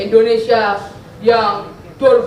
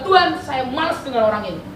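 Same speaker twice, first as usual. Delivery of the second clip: mildly exasperated retold complaint; grumbling to God; 4 semitones higher than usual. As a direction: imitate your own peeved griping in prayer. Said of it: "saya kesel saya ngomel ke Tuhan".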